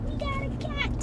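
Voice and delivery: high, delighted squeal of news; thrilled. Real, not acted. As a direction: burst out happily about the cat. Excited about the cat.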